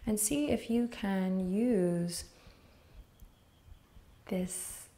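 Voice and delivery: unhurried, gentle meditation guiding with long pauses; guided meditation. Real, not acted. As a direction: ease the listener into noticing, leaving space between phrases.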